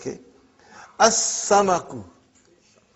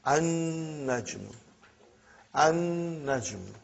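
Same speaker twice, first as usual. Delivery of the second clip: slow careful demo; 9 dB quieter, slower than usual. Shown as a demonstration. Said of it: "sun letter word demo".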